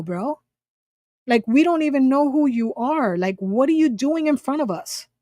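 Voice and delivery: retold exasperated telling-off, stretched at first; indignant scolding. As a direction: act out affronted disbelief without shouting. Retold scolding of stranger who rushed up.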